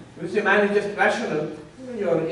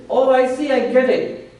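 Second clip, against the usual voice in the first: higher, louder voice of sudden understanding; imitating a logician; 8 semitones higher, 6 dB louder than usual. Teacher voicing what the Nayayika will think, mock realization. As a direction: act out an opponent who thinks he has got it. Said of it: "What will the Nayayika think".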